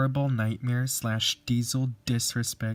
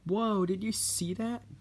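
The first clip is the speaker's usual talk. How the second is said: gasp; 10 semitones higher than usual. Acted. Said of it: "gasped Edward".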